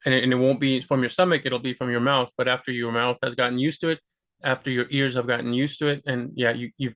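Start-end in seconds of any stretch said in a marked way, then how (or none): none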